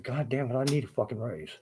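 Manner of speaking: acted exasperation with the boss; pissed off. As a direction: demand it like a fed-up employee. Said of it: "get pissed off and say".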